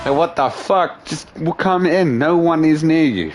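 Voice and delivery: mock exasperation at a needy cat; exasperated.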